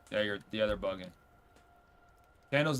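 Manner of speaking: ordinary talk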